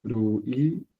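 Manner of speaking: "Luisa" slowly in syllables, ru-i-sa; "Luisa" with tapped R, syllable by syllable. Shown as a demonstration. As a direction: break "Luisa" up, opening on R. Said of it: "se pronuncia con R".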